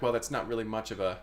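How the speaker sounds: soft, low, hurried musing; quiet, quick muttered reckoning; doubtful self-talk. Acted. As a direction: think aloud quickly under your breath. Chef doubting to herself over bleach.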